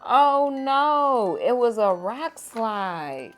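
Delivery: loud, high "Oh no"; alarmed. A narrator's reading. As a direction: sound the alarm. Rocks start falling.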